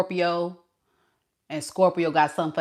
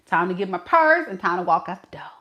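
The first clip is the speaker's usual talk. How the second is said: fast recap; faster than usual. Shown as a demonstration.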